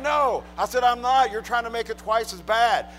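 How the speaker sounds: defensive protest. Retold or imitated. Acted protest to the officer.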